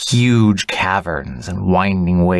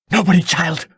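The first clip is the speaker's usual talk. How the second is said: almost angrily; 9 semitones higher than usual. A narrator's reading. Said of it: "almost angrily".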